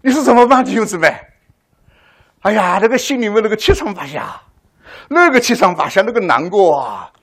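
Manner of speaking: high, loud cry of inner turmoil; anguished. Real, not acted. Preacher recalling his torment, crying out high and loud. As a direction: pour out the torment to the congregation. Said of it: "我那时候真的要哭出来了".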